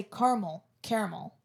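"caramel" as CAR-mul, then as CARE-uh-mul; two pronunciations of caramel. Shown as a demonstration. Podcast host comparing word variants, contrasting pronunciations of "caramel". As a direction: say "caramel" first with two syllables, then three. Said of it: "with some words, like, if you say".

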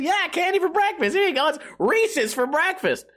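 high, peppy ad announcer; a cheesy candy commercial pitches Reese's for breakfast. Acted. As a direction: sell it like a cheesy cereal ad. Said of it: "that's how the commercial goes".

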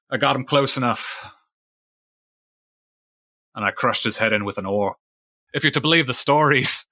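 lightly voiced old fisherman spinning his tale, with long pauses; a hint of proud sea-dog storyteller; old sailor Fisheye.

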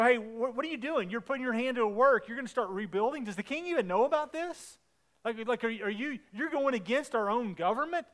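acted-out incredulous challenge; imitating disbelieving hecklers, pitch swinging up; mock jeering. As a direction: pile up questions like a scoffing accuser. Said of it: "they jeered at us and despised us".

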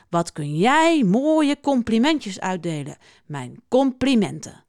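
slow, ceremonious praise; solemn. A narrator's reading. Uil solemnly compliments Schildpad on handing out compliments, solemn. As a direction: draw it out as a formal tribute. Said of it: "zegt hij plechtig".

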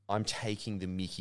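understated laconic sarcasm, softly delivered; taking the mickey. Shown as a demonstration. Showing co-hosts the Australian attitude, dry sarcasm. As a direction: toss it off softly, as if mocking. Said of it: "Australian accents do generally have this".

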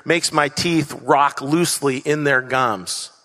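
a hint of reading Maya Angelou aloud; reading a poem's lines. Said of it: "where she says".

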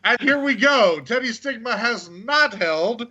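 lightly hammed-up announcer, pitched high; mock announcer introduction. Co-host listing titles the guest never won, playful announcer style. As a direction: announce the non-achievement like an accolade, amused.

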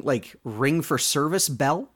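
normal talking voice

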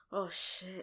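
small, sinking aside to oneself; hushed dread. Retold or imitated. Reliving feeling it before the shower, hushed dread.

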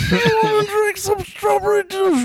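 high lispy offer. Retold or imitated. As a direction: ask it high with a lisp. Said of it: "that same kind of lispy".

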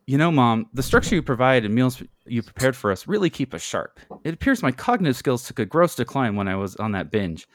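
put-on lightly smarmy boy buttering up mom; smug. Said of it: "Ferguson says smugly and grinning".

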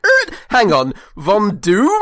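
high, loud startled query; record-skip double take. Acted. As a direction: stop dead and question the name. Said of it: "almost like a record skip".

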